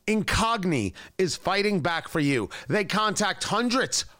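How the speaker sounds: upbeat host-read sponsor spot. Acted. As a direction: sell it to the listener.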